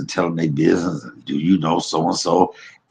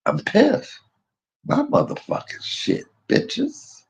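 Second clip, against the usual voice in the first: squealing indignant cry, much higher; high-pitched mock outburst; 4 dB quieter, slower than usual. Jailed man shrieking about his stolen things, high mock fury. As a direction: shriek it like a wronged kid. Retold outburst in jail cell.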